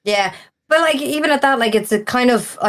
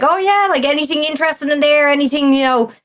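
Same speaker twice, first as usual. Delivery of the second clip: retold, pitched-up eager asking; eager brother; 6 semitones higher than usual. Brother asking a bar regular about old games, eagerly pitched up. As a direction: mimic the brother perking up at a bargain.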